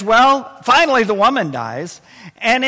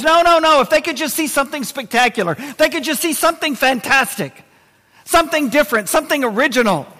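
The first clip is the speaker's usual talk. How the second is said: pleading rich man; 3 semitones higher than usual. Acted.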